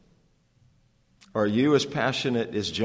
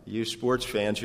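ordinary talk, nothing marked

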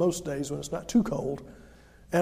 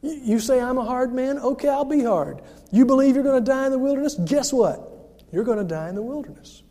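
higher, louder rebuke; stern God; 3 semitones higher, 4 dB louder than usual. Retold or imitated. God answering the grumbling Israelites, a stern loud rebuke. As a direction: throw their words back at them. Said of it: "God said to them".

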